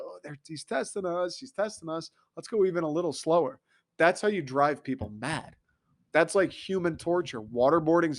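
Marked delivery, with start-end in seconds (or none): 0.0-3.6 mock drivers. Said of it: "people, I think, would go".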